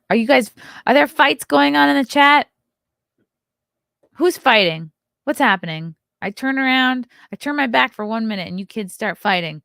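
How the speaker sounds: loud playful parent scolding; mock scolding. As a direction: tell off squabbling kids, half joking.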